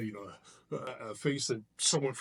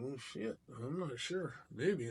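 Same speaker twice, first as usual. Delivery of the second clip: inner voice; 6 dB quieter, slower than usual. Retold or imitated. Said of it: "In my head, I'm going".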